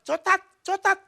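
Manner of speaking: put-on high, loud little-girl chant; high, loud mock-child "Cotat, cotat"; child's lisp demo. Shown as a demonstration. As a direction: show the child exactly how to ask. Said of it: "Nanti kamu bilang".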